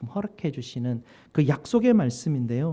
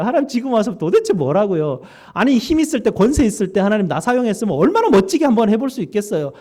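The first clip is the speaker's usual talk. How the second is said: protesting to God; 3 semitones higher, 4 dB louder than usual. Pretend. Preacher imagining himself arguing with God, indignant loud protest. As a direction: argue with God, fed up and indignant. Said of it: "막 따졌을 것 같아요".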